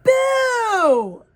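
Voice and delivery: high, loud scream of a ghost; ghostly scream. A narrator's reading. Ghost screams at the girl buried in her book, very loud. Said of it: "screamed Coco".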